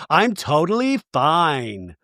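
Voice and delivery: slow, stretched mock insistence; insisting she's fine. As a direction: act out upset denial, dragged out. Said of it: "You don't seem fine".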